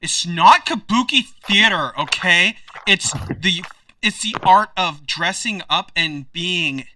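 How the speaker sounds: mildly indignant nerd lecturing; steely correction. Acted. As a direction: defensively set them straight on the art form. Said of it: "gives you a steely glance".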